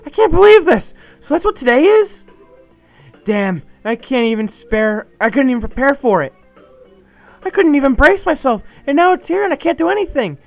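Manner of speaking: high, loud panicked ranting; freaking out. Acted. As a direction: rant in rising panic at his friend. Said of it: "he's majorly freaking out".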